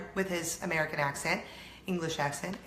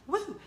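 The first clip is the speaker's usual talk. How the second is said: high "woo" cheer; 11 semitones higher than usual. Real, not acted. Cheering on mom's odd food choice.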